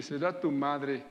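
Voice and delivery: mildly annoyed retort, slowly drawn out; a little annoyed. Retold or imitated. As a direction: retell a slightly irritated comeback, taking it slow. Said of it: "yo un poquito molesto".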